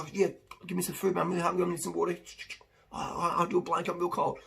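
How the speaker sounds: grateful needy person. Retold or imitated. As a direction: take the help gladly and quickly. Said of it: "Some people are".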